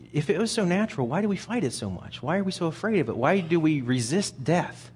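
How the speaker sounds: usual speaking voice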